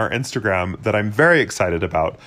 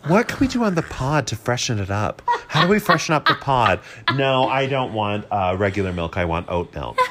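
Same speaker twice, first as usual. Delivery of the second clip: mock very-white coffee-shop customer. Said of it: "get very white".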